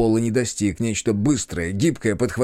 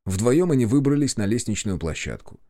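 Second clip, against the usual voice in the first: ordinary delivery, nothing marked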